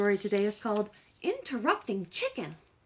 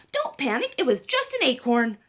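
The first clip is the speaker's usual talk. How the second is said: bossy reassurance; 6 dB louder than usual. Acted. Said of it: "and she said".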